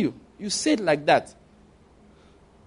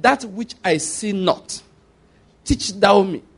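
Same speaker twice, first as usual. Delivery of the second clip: slow, deliberate scriptural recitation; prayer of Elihu; 3 semitones higher, much slower than usual. Retold or imitated. Preacher praying Elihu's prayer, slowly and deliberately. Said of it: "pray the prayer of Elihu".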